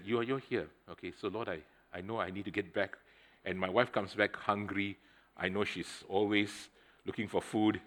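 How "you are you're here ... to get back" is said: soft prayer. Retold or imitated. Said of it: "But then I just said".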